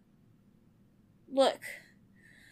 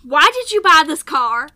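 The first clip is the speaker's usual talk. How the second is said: exasperated shout; 3 semitones higher, 13 dB louder than usual. Acted. Annoyed argument about car.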